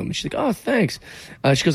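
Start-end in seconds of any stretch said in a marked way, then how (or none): 0.4-1.0 light reply in a singer's voice. Retold or imitated. A singer voiced.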